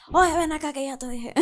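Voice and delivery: cracking put-on voice. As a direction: voice breaks on the line. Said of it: "me sale gallo".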